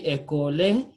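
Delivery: école said as "e-ko-leh" with the final E voiced; wrong, final E sounded. Shown as a demonstration. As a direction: add a spoken E to the end of école. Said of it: "we don't say".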